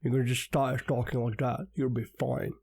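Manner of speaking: mouth-full-of-potato mock American accent; attempted American accent. Shown as a demonstration. Co-host explaining how easy it is, mock American accent. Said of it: "That was more Sean Connery".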